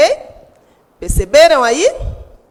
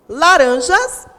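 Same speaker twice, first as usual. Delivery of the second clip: "laranjas" raised and louder, strong on middle RAN; stress on RAN; 5 semitones higher, 5 dB louder, slower than usual. Shown as a demonstration. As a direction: punch the middle syllable of "laranjas". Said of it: "a sílaba mais forte é o rã". ("laranjas" com o RAN bem forte)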